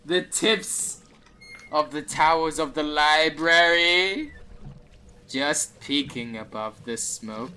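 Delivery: slow spectral voice, high then settling down; slow ghostly dwarf. Acted. Ethereal dwarf shows the party the library, slow ghostly voice. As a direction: draw it out like a ghost pointing the way. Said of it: "He speaks slow and almost lifeless".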